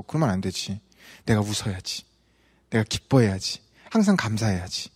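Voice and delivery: low, hushed talking to oneself; subdued, low inner pep talk; quiet self-talk. Retold or imitated. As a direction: softly remind yourself, pitched well down. Preacher voices his self-talk.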